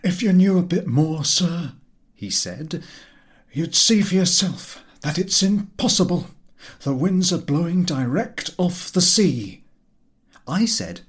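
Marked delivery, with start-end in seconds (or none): 0.0-9.6 irritated sailor. A narrator's reading. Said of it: "He appeared irritated".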